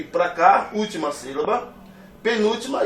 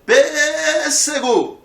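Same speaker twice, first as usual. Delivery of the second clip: high, loud sports commentator cry, first syllable stretched; Galvão Bueno; 8 semitones higher, 7 dB louder, much slower than usual. Acted. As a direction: belt it out like a goal call. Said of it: "Imagine que o Galvão Bueno vai falar essa palavra". (narrador esportivo, sílaba tônica esticada)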